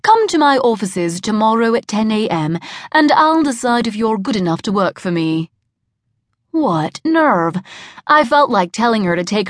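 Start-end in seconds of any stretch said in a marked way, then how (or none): 0.0-5.5 put-on phony British accent. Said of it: "the phony Brit was saying".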